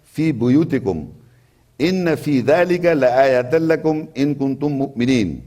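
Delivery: fast, flowing Arabic chant; Quran recitation. Acted. Preacher quoting scripture to listeners, chanted recitation. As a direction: recite the verse in one smooth melodic run.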